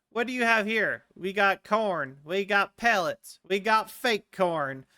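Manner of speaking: a hint of a country trader's accent; put-on shopkeeper accent. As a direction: sell the goods in a folksy accent. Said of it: "I want to give everyone that accent".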